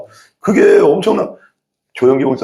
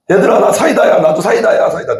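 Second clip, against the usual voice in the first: the cola telling the sprites it is one of them, raised and eager; playful cola voice; 6 semitones higher than usual. Pretend.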